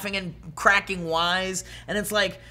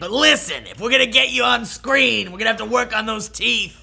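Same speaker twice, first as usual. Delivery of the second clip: talent agent voice; 3 semitones higher, 3 dB louder than usual. Retold or imitated. Talent agent robot pitch.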